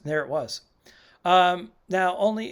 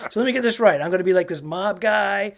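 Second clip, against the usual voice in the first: laughing disbelief; 2 semitones higher, 4 dB louder than usual. Retold or imitated. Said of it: "a little perplexed by doing it".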